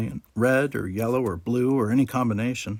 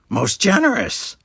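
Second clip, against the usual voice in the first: smug Ferengi barkeeper; 9 semitones higher, 5 dB louder than usual. A narrator's reading. Quark greets his nephew and Jake, a louder smug Ferengi voice. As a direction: tease the boys with a grin.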